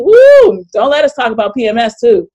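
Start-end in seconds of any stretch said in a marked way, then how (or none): 0.0-0.7 high, loud whoop of delight; excited whoop. Real, not acted. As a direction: cheer the comment on. Cheering a chat comment.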